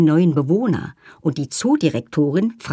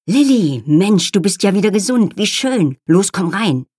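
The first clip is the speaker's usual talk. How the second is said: excited; 3 semitones higher, 4 dB louder than usual. Acted. Jesaja greets Lilly warmly.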